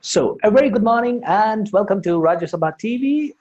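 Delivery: repeating the anchor's opening line; lightly voiced news presenter; newsreader imitation. Shown as a demonstration. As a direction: mimic the news anchor's greeting. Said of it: "You try to repeat it".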